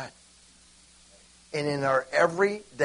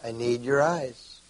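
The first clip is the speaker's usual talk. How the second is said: pleading with pastor; 3 semitones lower, 3 dB quieter, slower than usual. Retold or imitated. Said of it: "I'd say".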